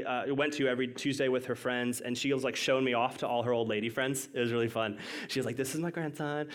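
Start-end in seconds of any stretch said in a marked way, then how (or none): 5.6-6.5 lightly voiced grandma, a little softer; a hint of Grandma, not mocking; grandma's way of talking. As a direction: lightly imitate a grandmother's speech, affectionately. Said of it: "that's how she talked".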